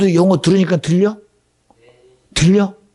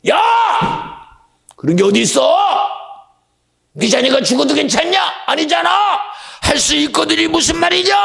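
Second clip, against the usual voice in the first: angry rebuke; 14 semitones higher than usual. Acted. Jesus rebukes the wavering father with a furious shout. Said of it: "근데 주님은 화가 나".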